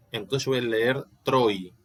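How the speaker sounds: "troi" said as one syllable, the i like a y. Shown as a demonstration. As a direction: glide "troi" as a diphthong. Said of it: "Como si fuera acá como una J". ("troi" en una sílaba, la i como semiconsonante)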